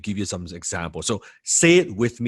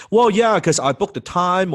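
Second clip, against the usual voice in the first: prospect answering; 8 semitones higher, 4 dB louder than usual. Acted.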